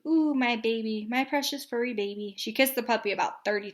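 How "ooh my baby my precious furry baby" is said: cooing. Acted. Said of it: "she cooed".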